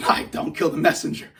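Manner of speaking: breathy laughing plea. Real, not acted. Repeating the apology to viewers, laughing.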